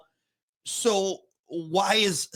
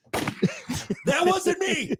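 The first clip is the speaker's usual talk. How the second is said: drawn out; 12 semitones higher, much slower than usual. Pretend. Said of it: "I want everyone to know".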